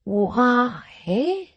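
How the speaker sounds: drawn-out, knowing Why; a touch of smug triumph; triumphant. A narrator's reading. Sister revealing her suspicion to Brass, triumphantly. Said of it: "with an air of triumph".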